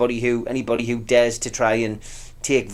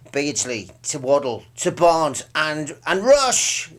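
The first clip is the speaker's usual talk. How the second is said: commentary voice; 3 semitones higher, much slower than usual. Retold or imitated. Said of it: "he used to do the commentary".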